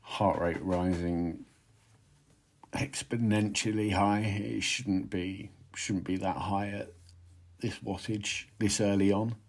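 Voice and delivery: out of breath mid-effort; cycling hard. Real, not acted. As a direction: pant the words out between pedal strokes. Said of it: "I'm in abject pain".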